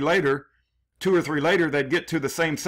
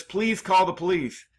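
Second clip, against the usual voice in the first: higher and pressing, a mild mock emergency; urgent panicked plea; 4 semitones higher than usual. Shown as a demonstration. Showing how the real call for help sounded, as an urgent plea. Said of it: "as when someone is in a dire emergency and says".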